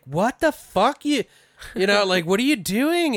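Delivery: high shocked outburst, mock. Retelling a film scene, mock shocked high outburst. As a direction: act out a startled friend.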